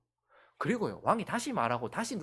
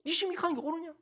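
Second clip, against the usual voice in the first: higher, sharp scolding question; a parent rebuking a defiant child, raised and sharp; 11 semitones higher, much faster than usual. Retold or imitated. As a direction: press the child hard on it. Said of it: "니 지금 뭐 때문에 이거?".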